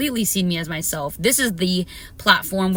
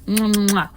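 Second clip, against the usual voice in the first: blown kisses. Real, not acted. Blowing kisses.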